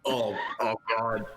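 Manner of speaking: muffled-pride, stammering self-reproach; mortified self-scolding. Acted. Character realises he overshared aloud, mortified self-scolding. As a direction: scold yourself in embarrassed repeats. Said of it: "realize that he just said all of this out loud".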